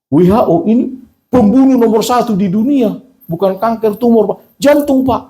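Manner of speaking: high-pitched, emphatic telling-off; indignant retold scolding. Patient telling a noisy wardmate his illness is serious, indignant. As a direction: lecture him insistently, pitched well up.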